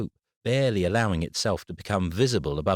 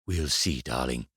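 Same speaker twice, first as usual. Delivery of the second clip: grandmother; 6 semitones lower than usual. A narrator's reading. Grandmother voiced.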